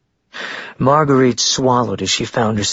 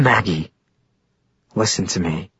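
calm tone; 3 semitones lower than usual. A narrator's reading. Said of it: "in a calm, irrational tone".

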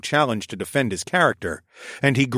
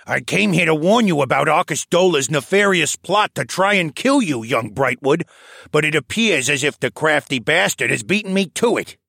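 put-on raised, lively old scholar voice; old koala elder voice; 6 semitones higher, 4 dB louder than usual. A narrator's reading. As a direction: voice the old archivist, a touch higher. Old koala elder Tovish speaks.

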